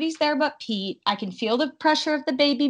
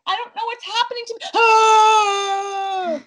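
high, fast, panicked wail; frantic high cry; 11 semitones higher, 7 dB louder, slower than usual. Retold or imitated. Retold labor panic.

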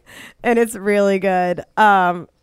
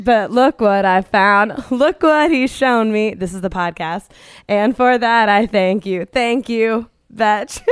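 recited lyrics. Pretend. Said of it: "I didn't really sing it".

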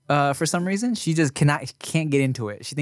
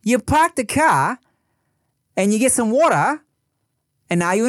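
Australian accent; 8 semitones higher than usual. Shown as a demonstration. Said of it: "throw a little British on there".

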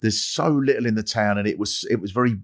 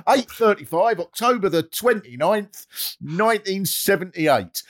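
announcer voice; 9 semitones higher than usual. Retold or imitated. Mock radio announcer time check.

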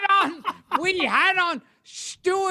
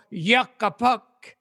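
comic catchphrase; 5 semitones lower than usual. Retold or imitated. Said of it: "he used to go".

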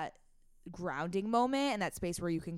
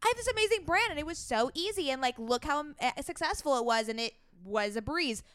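higher, fast, glossy sales-pitch brag; mock boastful claim; 5 semitones higher, faster than usual. Podcast host mocking the perfect brand story, fast and breezy. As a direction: sell the fake easy success story. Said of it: "you want to say, like".

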